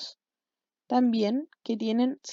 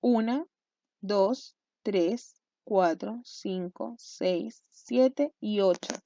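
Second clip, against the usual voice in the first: measured count, a beat after each number; teacher's steady, spaced-out count; counting aloud; 3 semitones lower, 3 dB quieter, much slower than usual. Shown as a demonstration. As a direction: count off the syllables one at a time. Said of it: "Contemos, por favor".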